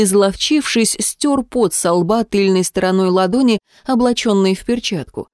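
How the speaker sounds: usual speaking voice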